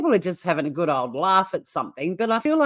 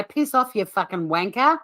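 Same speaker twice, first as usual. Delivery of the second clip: Aussie accent demo. Shown as a demonstration. Coaching Will to repeat after me, Aussie accent demo. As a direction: show how a real Aussie accent says it. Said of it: "Repeat after me, Will".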